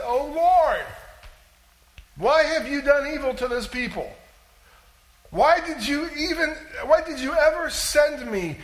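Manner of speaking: high, loud cry of complaint, stressing why; anguished loud plea. Acted. Moses crying out to God about his people, loud anguished plea. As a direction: cry out to the Lord in distress. Preacher reads Moses' lament aloud.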